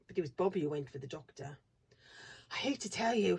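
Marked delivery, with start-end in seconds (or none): 2.5-3.4 breathless. Acted. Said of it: "she said breathlessly".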